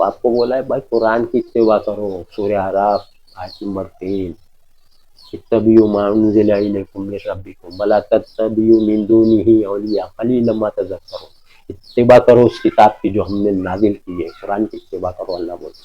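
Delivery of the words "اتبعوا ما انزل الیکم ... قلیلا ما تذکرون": slow, measured Arabic verse recitation; Quran recitation. Real, not acted. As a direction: recite the verse slowly and deliberately. (ٹھہر ٹھہر کر آیت کی تلاوت)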